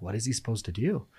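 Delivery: mock distress, building in pitch; imagined worried audience. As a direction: lightly act out a listener fretting over a cliffhanger. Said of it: "go home that whole week and be like".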